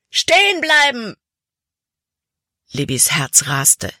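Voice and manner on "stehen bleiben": much higher, loud shout; villain calling out. A narrator's reading. Slave catcher shouting at the fleeing children, loud call. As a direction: call across the gorge like a hunter spotting prey. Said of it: "rief Hutton".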